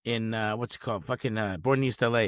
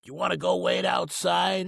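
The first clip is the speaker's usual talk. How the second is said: higher slow line; 6 semitones higher, slower than usual. Retold or imitated. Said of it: "And he's all".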